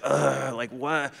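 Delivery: mock-groggy "ugh" of disbelief; exasperated. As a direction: imitate someone irked at being woken. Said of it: "with that exasperated".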